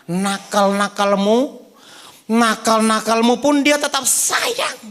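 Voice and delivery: slow and gentle, drawing it out; slow tender preaching. Acted. Preaching line, then repeated shouted.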